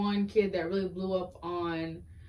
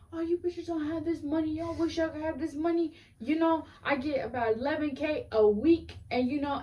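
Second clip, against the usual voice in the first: put-on high, showy spoiled-kid voice; bratty rich kid; 8 semitones higher than usual. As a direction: brag like a spoiled child star. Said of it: "and she'd be like".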